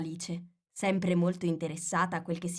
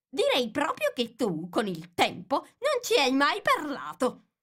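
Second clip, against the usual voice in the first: disdainful; 9 semitones higher, 4 dB louder than usual. A narrator's reading. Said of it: "scuotendo sdegnosamente la testa".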